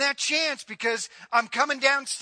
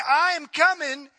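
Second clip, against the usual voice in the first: louder, higher firm warning; loud stern divine warning; 4 semitones higher, 6 dB louder than usual. Acted. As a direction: voice God's warning with force. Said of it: "God is saying".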